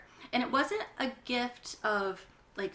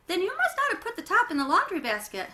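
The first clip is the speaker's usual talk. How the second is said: mild exasperation; 9 semitones higher, 6 dB louder than usual. Acted. Mom arguing back.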